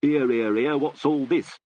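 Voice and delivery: slow, drawn-out mock village constable; a lightly voiced old-school copper asking what's going on; old-fashioned bobby. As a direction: ham up a plodding old policeman. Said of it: "an old-fashioned sort that says".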